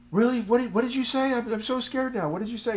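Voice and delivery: high, loud mock panic; hammed-up scared listener, voice shooting up; freaking out. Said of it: "he freaks out".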